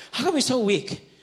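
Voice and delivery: loud, high mock yell; hammed-up high-pitched heckle; retold child's yelling. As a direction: imitate a kid yelling at dad. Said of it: "like, yelling at me".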